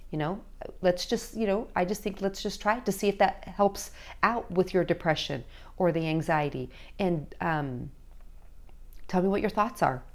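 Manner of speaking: softly spoken, tentative suggestion; quiet, caring parent checking in; gentle conversation. Acted. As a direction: invite a teen's opinion gently. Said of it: "gentle conversation".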